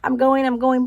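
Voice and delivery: mock panting, rushing along; imitating someone gasping for air; out of breath. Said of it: "feeling like".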